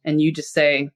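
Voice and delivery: normal talking voice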